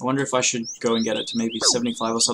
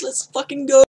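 excited yelling; 13 semitones higher, 6 dB louder than usual. Real, not acted. Rare seed drop, celebrating.

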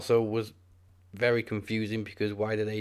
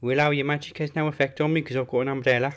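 Drake Maverick impression; 6 semitones higher, faster than usual. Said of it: "see Drake Maverick style".

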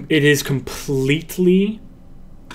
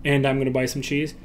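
quick, light, a bit softer; 5 dB quieter, faster than usual. Shown as a demonstration. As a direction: rattle it off lightly. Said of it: "or like this".

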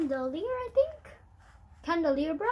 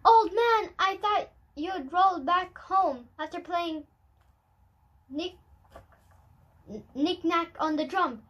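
surprised greeting; 4 semitones higher, 4 dB louder than usual. Acted. Old woman greets old man.

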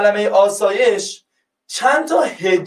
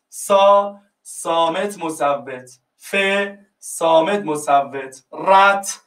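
each syllable of مسافرت said apart, with pauses; 2 semitones lower, much slower than usual. Shown as a demonstration. Teacher marking each syllable of مسافرت for students, slow and separate. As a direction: count out the syllables one by one. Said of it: "بخش کنم".

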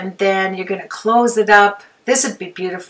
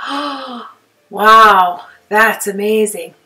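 mock-amazed "oh, wow", with a big jump in volume on wow; awed gasp; 6 dB louder, slower than usual. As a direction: play someone stunned by beautiful paper. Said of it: "You're just gonna be in awe, like".

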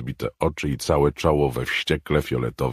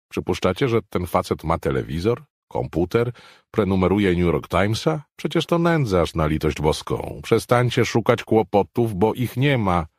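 a lightly voiced, higher, louder scoff; mock the others' fears; scoffing Brockman; 7 semitones higher, 5 dB louder than usual. Brockman scoffing at the others, lightly voiced scorn.

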